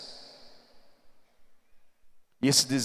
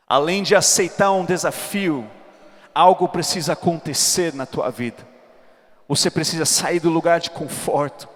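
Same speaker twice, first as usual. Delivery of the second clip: preaching; 7 semitones higher than usual. Acted. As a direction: build it up and preach it hard. Preaching at full force.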